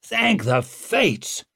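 high, drawn-out exclamation; long, high cry of relief; relieved call. A narrator's reading. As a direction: call out slowly in great relief. Relieved rider calls back.

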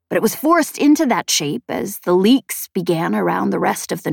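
lightly voiced explainer, measured with emphatic words; Chet. Chet explains the nowhere to Spensa, lightly voiced, measured. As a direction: explain it deliberately in a light character voice.

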